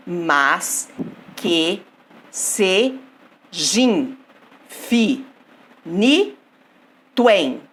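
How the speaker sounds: "Mas, que, se, jin, fi, ni, tuen" as isolated beats with pauses; syllable by syllable. Shown as a demonstration. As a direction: scan it slowly, each syllable of "Mas, que, se, jin, fi, ni, tuen" standing alone. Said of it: "Vamos lá dividir". (sílaba por sílaba, "Mas, que, se, jin, fi, ni, tuen" pausado)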